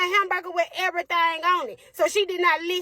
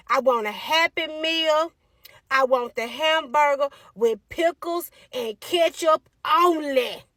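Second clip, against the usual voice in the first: slow, sassy order, drawn out; a little girl ordering with attitude; neck-rolling sass; slower than usual. Retold or imitated. Daughter ordering at the counter, slow and sassy. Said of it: "Rolling her damn neck".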